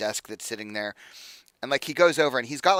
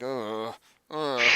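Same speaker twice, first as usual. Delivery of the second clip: sleepy grumbling; 4 dB quieter than usual. Acted. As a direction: grumble wordlessly, as if woken up. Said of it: "you hear some grumbling from inside".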